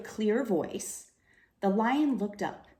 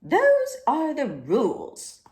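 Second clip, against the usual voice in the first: loud, higher stern warning; 8 semitones higher, 9 dB louder, slower than usual. Acted. Librarian warns the roaring lion, stern loud warning. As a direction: lay down the rule firmly. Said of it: "stern voice".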